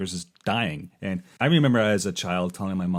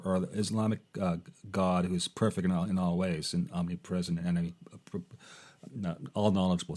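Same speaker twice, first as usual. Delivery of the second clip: halting, stumbling speech; stuttering; 2 semitones lower than usual. Real, not acted. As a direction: trip over the words. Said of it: "I'm stuttering right badly".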